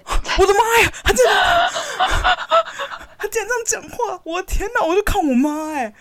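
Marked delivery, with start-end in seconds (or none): 0.1-4.2 much higher, louder disbelief; shocked exclamation. Real, not acted. Daughter shocked her mom talks in baby talk, much higher. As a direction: cry out in laughing shock.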